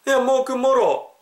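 high-pitched, startled questioning; alarmed dialect question. Acted. Friend asking about a bruise, high alarmed dialect. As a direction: demand an explanation in Korean dialect.

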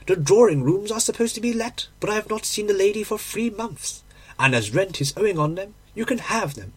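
landlady. Acted.

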